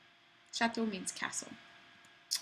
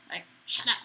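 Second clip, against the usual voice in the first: playful; 4 dB louder, faster than usual. Shown as a demonstration. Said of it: "Just kidding".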